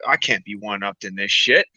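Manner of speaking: Russian character. Acted. Russian character voiced in joke.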